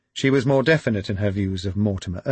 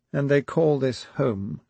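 wailing; 5 semitones higher, slower than usual. A narrator's reading. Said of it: "she wailed".

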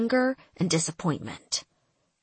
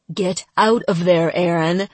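shouting; 6 dB louder than usual. Acted. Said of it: "he shouted".

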